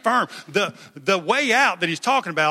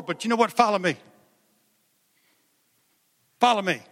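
higher, urgent, fired-up call to follow; God calling Jesus; 4 semitones higher than usual. Acted. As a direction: urge him on like an excited father. Preacher voicing God calling Jesus.

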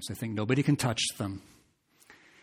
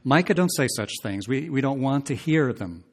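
mocking quote; 3 semitones higher, 5 dB louder than usual. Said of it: "In other words, they're saying".

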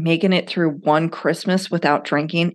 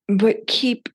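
whisper; 5 semitones higher than usual. Real, not acted. Whispered encouragement.

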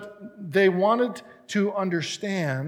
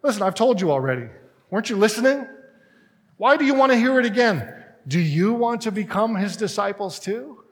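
exasperated; 5 semitones higher than usual. Retold or imitated. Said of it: "He's like".

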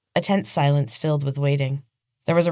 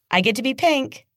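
put-on high, bright childish squeal of delight; excited little girl; 10 semitones higher than usual. Little girl showing her game to Casey, high and excited. Evelyn claiming pink.

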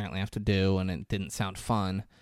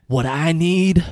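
loud, slow, bitter declaration; acting out an angry parting shot, building louder; retold fuming retort; 5 semitones higher, 11 dB louder, slower than usual. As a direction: stretch each word out in mock fury. Fuming man storms out, retold.

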